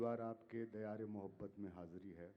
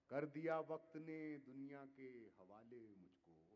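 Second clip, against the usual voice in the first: measured, declaiming poetry to audience; ghazal recitation; slower than usual. Acted. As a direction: recite each couplet with weight. Poet repeats on request.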